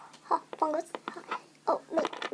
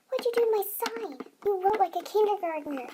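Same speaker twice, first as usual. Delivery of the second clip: exasperated scolding; 5 semitones higher than usual. Acted. Boss scolds over botched sign.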